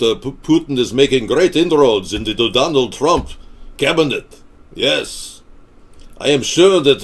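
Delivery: lightly put-on Russian accent, emphatic; mock Russian accent. Host parodying a Russian talking about Putin and Trump, mock Russian accent. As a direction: play a Russian pundit.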